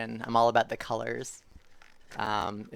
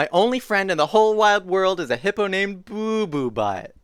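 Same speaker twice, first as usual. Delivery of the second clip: storybook declaration, pitched higher; animated story reading; 7 semitones higher, 7 dB louder than usual. A narrator's reading. Reader introduces a hippo friend, animated read-aloud. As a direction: announce the silly name in full earnest. Reads silly book line aloud.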